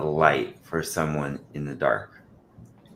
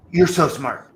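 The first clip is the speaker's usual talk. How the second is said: high, louder gushing praise; sweet pet talk; 11 semitones higher, 8 dB louder than usual. Retold or imitated. Showing kids how tone matters, high gushing praise. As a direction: gush it at the dog. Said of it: "if I change my tone".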